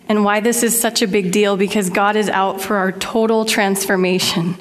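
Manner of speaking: a little breathless, real; talking while short of breath. Real, not acted. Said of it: "I'm feeling a bit short of breath".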